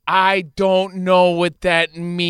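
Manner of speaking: slow, exasperated retort; frustrated. Retold or imitated. Boyfriend retelling the slang argument, slowly frustrated. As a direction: spell out your confusion word by word. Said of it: "I'm getting frustrated because I'm like".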